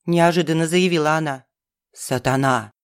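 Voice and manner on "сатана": ниже и медленно; торжественно пьяно заявить; пьяная Галя. A narrator's reading. Галя про лягушку. (Галя заявляет о Фаусте, ниже и медленно)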